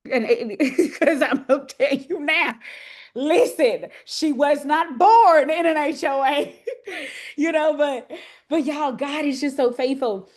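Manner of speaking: real laughter breaking into her words; can't stop laughing as she talks; laughing through words. Real, not acted. Pastor laughing while telling the congregation about the move.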